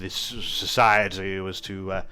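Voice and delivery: lightly voiced haughty nobleman; a hint of an aloof aristocrat; pompous nobleman. GM voicing nobleman NPC.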